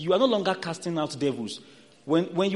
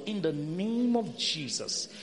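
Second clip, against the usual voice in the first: quiet prayer; 7 dB quieter, slower than usual. Shown as a demonstration. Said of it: "the first response should be what?".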